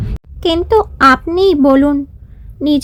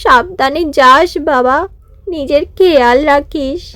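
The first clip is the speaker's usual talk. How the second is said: usual speaking voice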